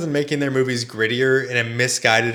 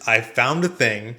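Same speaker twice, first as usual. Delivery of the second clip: mock Jack Black quote; 4 dB louder than usual. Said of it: "what Jack Black actually says is".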